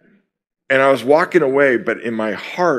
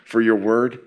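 prayer. Acted. Opening prayer before sermon.

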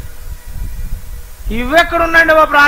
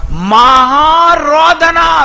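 మహారోదన wailed slowly, higher and louder; preacher wails మహారోదన slowly to show great weeping; loud drawn wail; 5 semitones higher, 6 dB louder, much slower than usual. Shown as a demonstration. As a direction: cry out మహారోదన as a long loud lament. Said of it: "ఎలా అంటండి ఈయన?".

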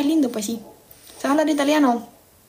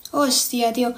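Spain accent; slower than usual. Shown as a demonstration. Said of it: "te diga con acento español".

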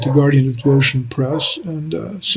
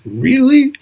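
mock disbelief; 4 semitones higher than usual. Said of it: "You're like".

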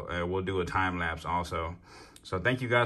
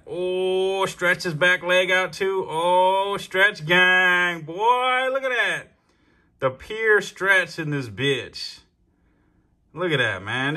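much higher, loud and thrilled; amazed; 9 semitones higher, 6 dB louder, much slower than usual. Real, not acted. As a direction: crow over it in delight. Marvelling at the rat stretching.

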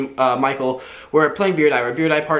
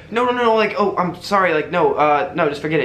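panicked backpedalling; 3 semitones higher than usual. Retold or imitated. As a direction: scramble to take it all back. Panicked backpedalling after accidental reveal.

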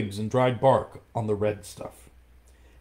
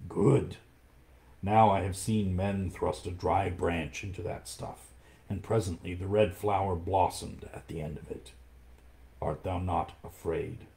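lightly lowered and hushed; low panther voice; 3 semitones lower than usual. Acted. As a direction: ask it like a wary old panther. Panther speaks of the red flower.

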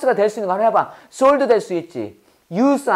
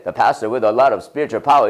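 much lower, slow, resonant belly voice; 9 semitones lower, much slower than usual. Shown as a demonstration. Teacher showing students how to speak from the belly, low and slow. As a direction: drop the voice deep into the belly and roll it out slowly. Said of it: "아, 배로 해야 돼".

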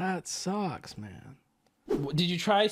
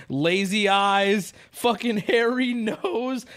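reading chat insults; 4 semitones higher, 5 dB louder, much slower than usual. Retold or imitated. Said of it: "everyone's like".

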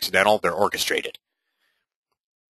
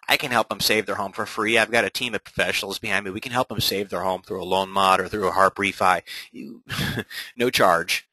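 friendly, lower-key sales pitch at the door; door-knocking pitch; 3 semitones lower than usual. Shown as a demonstration. Agent at a neighbor's door offering help, gentle pitch.

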